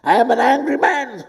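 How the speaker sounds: laughing mock admission; laughing confession. Preacher jokingly confesses to his congregation, laughing. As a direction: own it with a laugh.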